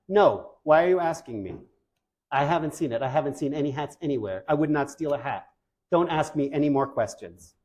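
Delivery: acted touchy innocence, starting on a sharp no; defensive denial. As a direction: protest too much, like a guilty storybook character. Acts out suspect denying hat theft.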